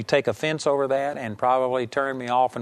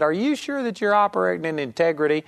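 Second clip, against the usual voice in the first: imitating a challenger, pitch raised then easing; mock challenge to someone in authority; challenging; 3 semitones higher than usual. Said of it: "somebody would have challenged me".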